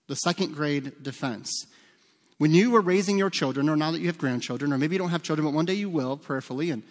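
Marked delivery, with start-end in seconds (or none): 0.1-1.6 The second grade defense, said slowly and quietly, each word weighed; slow stressed repeat. Shown as a demonstration. Pastor repeating the name slowly to the church, quiet and deliberate. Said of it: "I call this the second grade defense".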